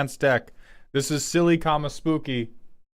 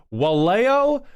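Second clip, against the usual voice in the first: dramatic name reveal; 6 semitones higher, much slower than usual. Acted. Announcing the evil twin's name.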